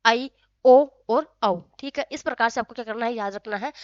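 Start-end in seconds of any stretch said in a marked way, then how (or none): 0.1-1.6 आई, ओ और औ held long, one by one; each vowel आई, ओ, औ stretched out; slow vowel demo. Shown as a demonstration. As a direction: sound out आई, ओ और औ slowly for pupils. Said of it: "ए में आपके बराबर".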